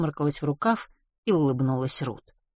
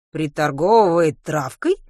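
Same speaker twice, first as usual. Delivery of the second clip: surprised; 7 dB louder than usual. A narrator's reading. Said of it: "удивлённо спросила".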